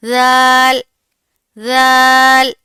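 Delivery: ذال said gently, not harsh; polite zaal. Shown as a demonstration. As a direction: soften ذال, no hiss. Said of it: "بہت politely پڑھنا ہے، سختی سے نہیں". (نرمی سے ذال)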